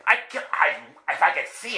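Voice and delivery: high, stammered protest; exasperated retort. Retold or imitated. Driver protesting to the voice in his head, exasperated. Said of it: "I'm yelling in the car".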